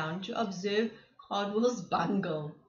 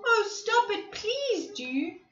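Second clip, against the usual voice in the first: pleading cry; 5 semitones higher than usual. Acted. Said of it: "yelled Cardwell".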